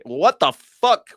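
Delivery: loud, slow what the fuck; appalled outburst; outraged disbelief. Real, not acted. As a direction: stretch out the shock. Outraged reaction.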